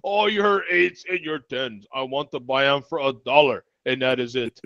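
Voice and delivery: mock Russian accent. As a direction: haggle in a joking Russian accent. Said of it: "accent for him".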